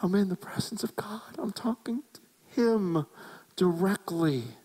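hushed, high, whispery awe; awestruck shock. Acted. Preacher imagining standing in God's presence, acted awestruck hush. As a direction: let it fade to a stunned whisper. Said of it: "you just went up that mountain shocked".

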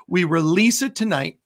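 measured prayer declarations, slowed on scripture. Acted. Pastor releasing joy over the congregation in prayer. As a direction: proclaim it like a closing prayer.

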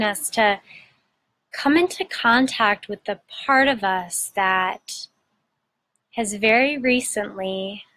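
unhurried meditation guide with long pauses; measured, soothing guidance, phrase by phrase; guided meditation. Acted. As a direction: gently lead listeners inward, pausing between phrases.

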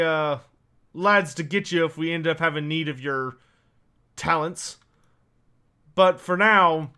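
lightly voiced dwarf, emphatic start then settling; a hint of a dwarf boss, pausing between thoughts; dwarf character. Dwarf sends newcomer out with parties, lightly voiced character.

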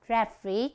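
"referee" stressed on the final REE; third-syllable stress. Shown as a demonstration. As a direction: land hard on the last syllable of "referee". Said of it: "chúng ta nhấn âm thứ ba". (nhấn âm thứ ba của "referee")

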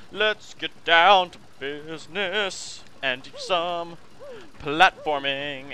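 mock dramatic announcer.

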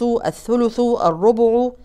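الثلث with the middle letter on damma. Shown as a demonstration. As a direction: say thuluth, not thulth. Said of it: "الوسط فيهم مضموم". (ضم الحرف الأوسط)

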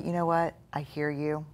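soft, gentle brush-off; calmly thanking the inner critic; calm reassuring reply. Shown as a demonstration. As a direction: answer the voice kindly and softly. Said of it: "what you do is say".

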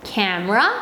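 very slow, clear teacher demo; slow model sentence. Shown as a demonstration. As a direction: stretch each word out for the kids. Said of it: "너 내 카메라 가져왔니". (아주 천천히 또박또박)

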